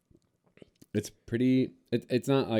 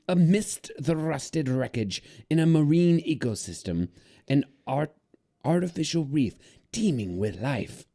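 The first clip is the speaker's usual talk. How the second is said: pirate voice; 3 semitones higher than usual. Acted. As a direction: growl it out like a salty pirate. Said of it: "that's what the pirates do".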